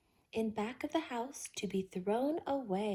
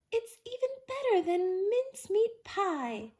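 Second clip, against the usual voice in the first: happy sigh; 9 semitones higher, 3 dB louder than usual. A narrator's reading. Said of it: "with a happy sigh".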